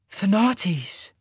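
high-pitched startled gasp of a name. A narrator's reading. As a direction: gasp it out in surprise. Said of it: "she gasped".

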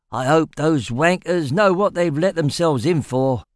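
grinning, relishing the trouble; a hint of a smug old prisoner; gloating convict. A narrator's reading. Three Finger gloats grinning.

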